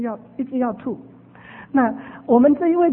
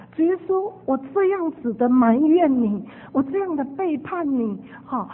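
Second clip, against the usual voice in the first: ashamed confession. Retold or imitated. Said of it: "她就觉得很羞愧".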